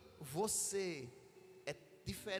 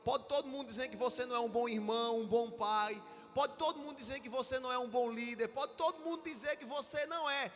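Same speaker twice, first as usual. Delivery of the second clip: building exhortation; 3 semitones higher than usual. Acted. Preacher rousing the church, building to a shout. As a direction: drive the list home, rising each time.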